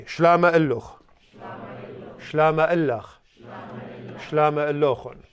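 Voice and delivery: 慢慢示范 "Shlama illuch"，让学生跟读; 逐句清晰示范 "Shlama illach"; slow model phrases. Shown as a demonstration. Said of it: "repeat after me".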